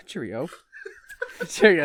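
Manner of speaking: shaky attempt at British, half laughing; British accent. Shown as a demonstration. Warming up to read Mr Weasley, tentative British accent. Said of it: "Gotta get into British character".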